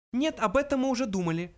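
high little mouse voice; high-pitched small creature. A narrator's reading. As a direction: answer matter-of-factly as a tiny mouse. Mouse Frankie answers.

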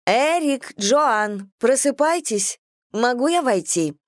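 high bright call through the door. Acted. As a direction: call them awake from outside. Sister calling through the door.

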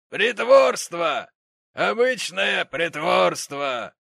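high, loud, slow mockery; scornful gentleman. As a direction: sneer the word out. Gentleman mocks Tom.

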